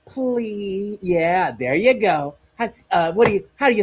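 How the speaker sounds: high, mock-coaxing talk to a child; condescending America. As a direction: coax like talking down to a kid. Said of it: "what America is telling Mexico".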